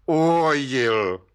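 slow, stubborn admission; dogged. A narrator's reading. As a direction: dig in and say it flatly defiant. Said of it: "pravil Václav Lisický zarytě".

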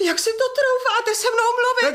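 high, indignant outrage at the rude visitor; indignant outburst. Acted. Widow scandalised by the rude landowner, indignant. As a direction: rise up, scandalised and offended.

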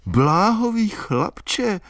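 high, thrilled Bláhový chlapče; excited. A narrator's reading. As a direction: burst out Bláhový chlapče again, stirred. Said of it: "opakovala vzrušeně".

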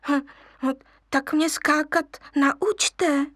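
slow, pleading cub; little lion begging the monkeys; wheedling. Acted. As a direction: coax them sweetly. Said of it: "loudil lvíček".

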